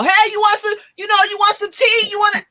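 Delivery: high, sugary fake-nice offer; mock sweet host. Mocking a fake-nice offer of tea to a partner. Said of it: "I'm not gonna do that".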